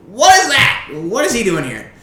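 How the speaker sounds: high, loud, alarmed gnome; gnome's outburst. Acted. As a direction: shoot up high in indignant disbelief. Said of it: "he's like".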